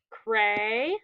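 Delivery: "cray" held long and rising; first syllable alone. Shown as a demonstration. Teacher pointing out a long vowel, syllable drawn out. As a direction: isolate "cray" with an open long A. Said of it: "We have two syllables".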